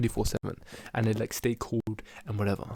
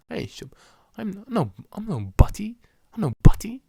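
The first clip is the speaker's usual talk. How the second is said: mock Batman lines; 5 semitones higher, 7 dB louder than usual. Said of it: "Batman was just like".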